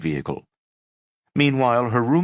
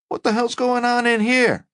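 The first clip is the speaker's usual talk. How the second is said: gruff fireman; 4 dB louder than usual. Acted. Fireman bursting in.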